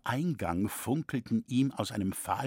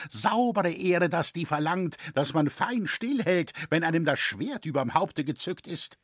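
put-on higher, indignant old voice; indignant old man; 6 semitones higher than usual. A narrator's reading. Old father scolds the stubborn son, indignant. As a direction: scold him in exasperated alarm. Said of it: "unmutig zur Erde".

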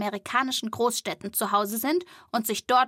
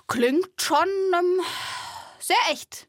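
polite irony; 8 semitones higher, slower than usual. Acted. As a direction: pretend to be impressed. Ironisch-höfliches Lob. (gespielt beeindruckt)

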